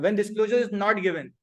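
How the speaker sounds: slow, measured dictation; teacher dictating the corrected wording slowly; slow dictated English. Shown as a demonstration. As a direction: lay out each word for note taking. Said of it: "वो simple जबान में लिख देते हैं".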